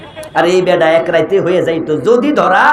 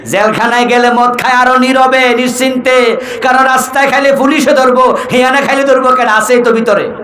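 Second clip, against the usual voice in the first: higher, sustained sermon chant; forceful preaching; 7 semitones higher than usual. Real, not acted. Preacher argues to crowd about drinking in jail, forceful preaching. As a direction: press the argument on the crowd.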